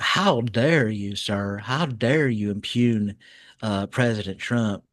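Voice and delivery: mock-affronted, stretched out slowly; pearl-clutching indignation. Host mocking an official's reaction, mock pearl-clutching. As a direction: clutch your pearls with mild outrage. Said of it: "pearl clutch on everything".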